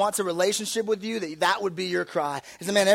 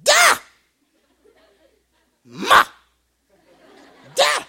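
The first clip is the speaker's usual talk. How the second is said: put-on high loud baby shout of Da; little boy yelling for his dad; toddler calling out; 9 dB louder, slower than usual. Son calling from his crib, loud baby shout.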